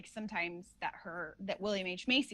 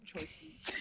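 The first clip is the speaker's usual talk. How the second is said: the impression cracks into giggles on "choices"; breaking into laughter; 13 semitones higher, 7 dB louder than usual. Real, not acted. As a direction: lose the solemn voice on "choices" and laugh.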